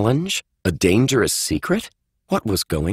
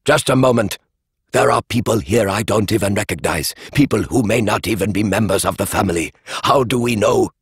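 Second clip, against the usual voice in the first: raised voice. Acted. Alistair raising his voice above the crowd. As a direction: make yourself heard over the room. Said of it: "Alistair O's voice rose above".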